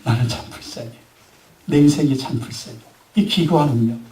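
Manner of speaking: low, subdued talking to oneself; acted lament over one's own hard lot; self-pitying. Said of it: "스스로에게 그렇게 얘기하고 싶죠?". (낮고 힘없이 혼잣말로 신세 한탄하듯)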